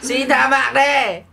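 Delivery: slow, drawn-out plea for mercy; mock begging. Little player begs the giant for mercy, slow and pleading. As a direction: beg for your life, hamming it up.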